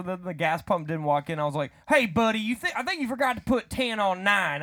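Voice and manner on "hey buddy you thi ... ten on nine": lightly acted, higher-pitched hey-buddy; retold casual call-out. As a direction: call out to a cashier, slightly raised. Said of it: "I said it like that".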